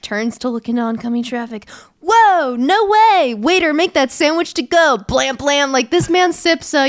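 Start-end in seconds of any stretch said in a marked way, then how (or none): 2.0-5.7 mock surprised assassin. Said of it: "what do you know?".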